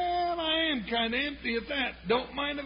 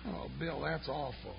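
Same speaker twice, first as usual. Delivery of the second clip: shocked; 10 semitones lower, 10 dB quieter than usual. Acted. Hearing the sheriff was killed.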